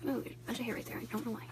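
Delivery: hushed voice. Real, not acted. Hushed near sick baby.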